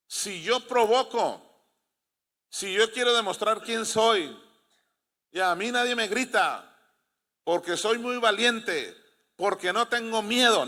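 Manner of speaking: high, emphatic boasting; mock bravado. Mocks bragging false bravery.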